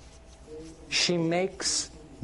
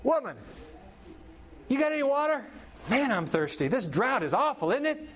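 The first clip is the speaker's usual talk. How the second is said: thirsty prophet; 8 semitones higher than usual. Retold or imitated. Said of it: "he sa".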